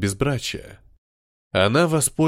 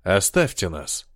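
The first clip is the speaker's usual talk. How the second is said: холодный приказ; 6 semitones lower than usual. Acted. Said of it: "Артур на неё рявкнул".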